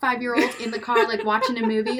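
mocking a careless mom who leaves her kid; breezy careless mom. Scene: mom mocks a careless parent leaving her son, breezy.

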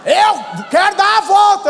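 high, loud, drawn-out yell; stretched, insistent shout; bully's shouted demand. Retold or imitated. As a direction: demand it at full voice. Acted bully demanding the bike.

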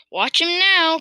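high, eager exclamation; excited cry. A narrator's reading. Farmer expecting the cockerel to grow, crying out. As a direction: urge everyone to look. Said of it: "cried Mister Cranky".

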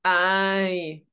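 loud, high Scottish "Aye"; Scottish accent. Shown as a demonstration.

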